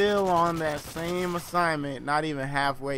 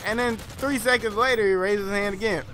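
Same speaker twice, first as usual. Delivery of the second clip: ordinary delivery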